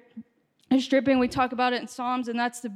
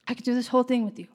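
rushed repeat; 4 dB quieter, much faster than usual. Acted. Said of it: "And the Lord's like".

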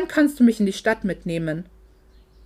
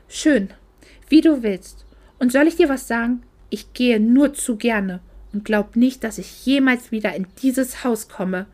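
furious. Acted. Isabella storming off after her mother sends her away, furious. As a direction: throw it at her on the way out. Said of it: "Sie war so wütend".

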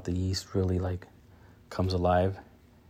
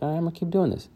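inner voice, pumped; 10 semitones higher, much faster than usual. Retold or imitated. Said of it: "makes me feel like".

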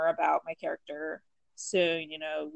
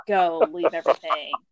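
raised, urgent command to flee; urgent order; 9 dB louder than usual. Retold or imitated. Doc ordering her off the attacked ship, loud and urgent. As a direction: shout at her to get off the ship.

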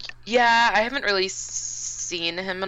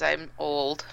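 words stretched by a yawn; 3 semitones lower, 6 dB quieter than usual. Real, not acted. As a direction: talk through a yawn. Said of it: "I'm just so sorry I keep yawning".

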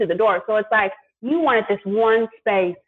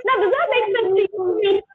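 incredulous; 10 semitones higher than usual. Retold or imitated. Confronting the tow clerk.

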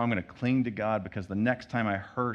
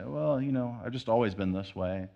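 evasive shrug; 3 dB quieter than usual. Retold or imitated. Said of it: "we might shy away from it and say".

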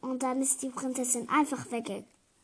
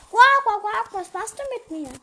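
high, loud croaks easing into a high question; protesting frog; 8 semitones higher, 11 dB louder than usual. Acted. Frog to the princess who grabbed him, high protest. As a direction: squawk it like an alarmed frog.

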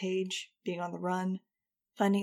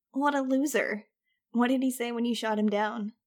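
laughing; 4 semitones higher, 6 dB louder than usual. A narrator's reading. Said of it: "He laughed, trying not to spit food".

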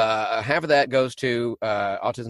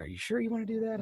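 soft doubtful aside; 11 semitones higher, 9 dB quieter, faster than usual. Retold or imitated. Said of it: "I'm like".

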